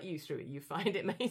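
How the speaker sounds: low, mildly offhand dog voice; can't be bothered. Retold or imitated. Unimpressed dog Star refusing to fetch for the owner, mildly offhand. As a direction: lightly voice an unbothered dog, low. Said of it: "And Star couldn't be bothered".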